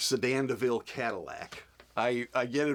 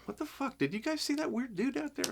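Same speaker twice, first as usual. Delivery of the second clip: mock spooked actor; 14 semitones higher, 3 dB quieter than usual. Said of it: "It's like".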